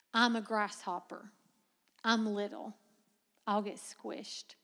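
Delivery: soft, shrinking mock fear; small timid voice. Preacher voices the spies seeing themselves as grasshoppers, softly. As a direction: say it like a tiny frightened bug.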